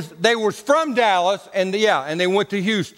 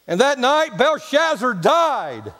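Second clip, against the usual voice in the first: preaching; 3 semitones higher, slower than usual. Retold or imitated. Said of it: "he said these words".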